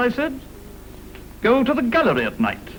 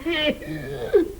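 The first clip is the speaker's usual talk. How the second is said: giggling; 3 semitones higher than usual. Acted. Silly toff giggle.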